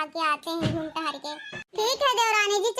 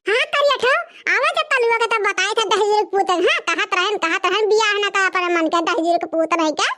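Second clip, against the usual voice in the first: put-on louder, lamenting old mother-in-law; scolding mother-in-law; 7 dB louder than usual. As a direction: wail and scold like a shocked village mother-in-law. (बहुओं को डाँटती सास, ऊँची आवाज़ में विलाप)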